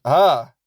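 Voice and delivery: a short mock-startled "Ah"; startled gasp. Watching the horror film, gasps at the doll. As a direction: jump at the scary doll, lightly. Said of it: "like that".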